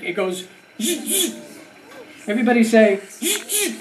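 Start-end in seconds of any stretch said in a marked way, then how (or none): 0.8-1.4 buzzing zzz saw noise; saw sound. Shown as a demonstration. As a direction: buzz like a saw cutting wood. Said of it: "what kind of sound does it make".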